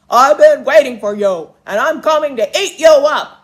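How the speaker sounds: booming ugly-troll voice, very loud. Storyteller reading a fairy tale, the troll answering Big Billy Goat Gruff, troll voice. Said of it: "under the bridge lived an ugly green troll".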